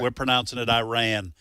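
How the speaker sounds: Iran as locals say it, "eye-RAN"; Southern pronunciation. Retold or imitated. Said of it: "But then people go".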